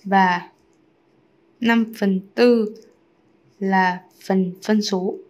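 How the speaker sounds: slow, stretched words with gaps; spaced out for writing along; slow dictation. Real, not acted. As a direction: dictate it bit by bit. Writing out the answer slowly.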